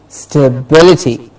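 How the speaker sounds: "Stability" as stuh-BIL-i-ty; stress before -ity. Shown as a demonstration. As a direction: model "Stability", beat on "bil". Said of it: "the syllable before ity is stressed".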